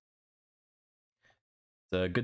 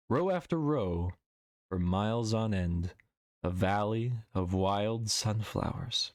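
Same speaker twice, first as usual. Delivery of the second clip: story reading. Acted. Streamer reading her own short story to chat, recital. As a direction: let each image land as you read.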